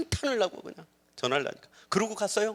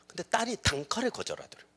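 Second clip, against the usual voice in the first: ordinary talk, nothing marked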